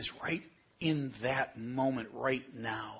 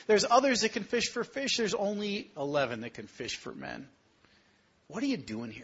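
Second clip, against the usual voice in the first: voice of Jesus; 7 semitones higher than usual. Acted. Jesus voiced addressing disciples.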